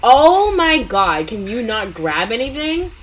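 slow, drawn-out exasperated complaint; fed up with a partner who won't help. Real, not acted. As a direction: stretch it out, fed up.

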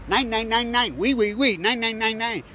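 high, loud chant of mock French refusals; mocking nine and oui, high and loud; mock French and German. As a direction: ham up a singsong foreign no. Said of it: "this site says".

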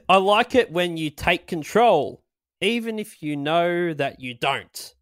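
slow, drawn-out lilting lyric reading; lyric recital. Acted. Host reciting verse two of the song, slow and lilting. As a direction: recite each line slowly with swooping tune.

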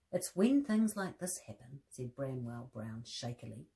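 gentle storybook reading with voiced bears; reading to children. A narrator's reading. Presenter reading a teddy bear story to children, gentle storybook voice. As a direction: read the story aloud to little listeners.

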